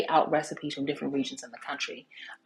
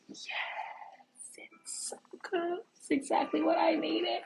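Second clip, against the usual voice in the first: mother's delighted voice; 13 semitones higher, 6 dB quieter than usual. Retold or imitated. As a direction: voice your mom savouring the broth. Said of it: "she was like".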